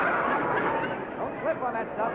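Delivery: slow warning through laughter; chuckling while he warns; laughing. Real, not acted. Contestant in whipped cream, host amused.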